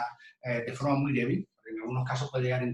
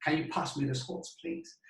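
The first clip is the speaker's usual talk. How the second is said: Can you pass me the results please read very slowly; slow demo reading; much slower than usual. Shown as a demonstration. Teacher reads the consonant sentence slowly aloud. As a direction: draw out each word of the sentence. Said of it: "podemos más o menos fácilmente".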